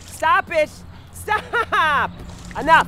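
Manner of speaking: sharp scolding shout; rising exasperated yell; yelling stop. Acted. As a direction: snap at the kids to quit. Telling kids off, shouting.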